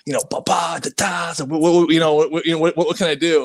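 retold eagerness, tumbling over repeated words; pumped. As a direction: stammer eagerly like a kid in a candy store. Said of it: "so pumped".

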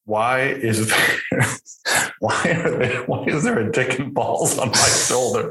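retold outrage broken by giggles; laughing breathily mid-sentence; laughing through the quote. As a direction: quote the kid while cracking up.

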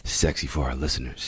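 low, soft seductive voice; sexy voice. Shown as a demonstration. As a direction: purr it deadpan for the listeners. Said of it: "Say something sexy".

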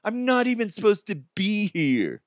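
high-pitched movie-character whine; Dante. Retold or imitated. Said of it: "he's always like".

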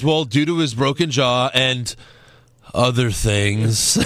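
long pause before "other things", then drawn out slowly; mock trainer, hanging on "and", then slow "other things"; dramatic pause. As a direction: imitate a bad actor stalling before "other things". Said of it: "Dramatic pause".

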